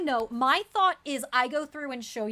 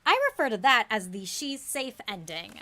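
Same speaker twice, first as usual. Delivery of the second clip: excited announcement. Real, not acted. Repeats line louder over reactions.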